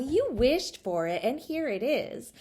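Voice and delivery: doll mommy. Acted. Doll mommy telling Charlotta she wished, high and sweet. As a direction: explain it sweetly like a doll mother. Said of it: "said the doll mommy".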